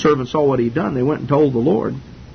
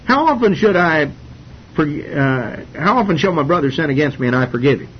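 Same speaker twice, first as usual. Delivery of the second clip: Peter voiced higher, keen to impress the Lord; eager Peter; 3 semitones higher than usual. Peter asks the Lord, eager to impress, higher voice. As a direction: Peter fishing for praise, pitched up. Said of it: "and he said".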